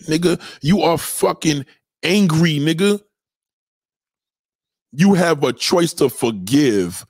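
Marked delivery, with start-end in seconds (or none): 4.9-7.0 slow, drawn-out mock recital; mocking the cliché. Mimicking a disgruntled person, slow and sneering. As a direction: sneer the saying out slowly. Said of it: "Disgruntled people talk like this".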